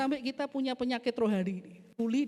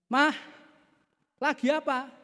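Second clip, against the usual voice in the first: husband calling to his wife; acted call across the kitchen; 3 semitones higher than usual. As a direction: call out to her, drawing out the question. Husband calls again, nearer.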